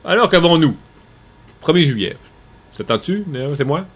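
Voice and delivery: talking through a mouthful of chips; mouth full of chips. Real, not acted. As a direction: speak round a mouthful of chips. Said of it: "J'ai la bouche pleine de chips".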